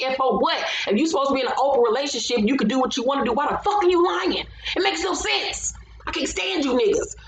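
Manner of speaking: rising, fed-up rant at lying men; exasperated rant. Real, not acted. Scolding cheating men on the show, exasperated rant. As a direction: go off on them, pitch climbing.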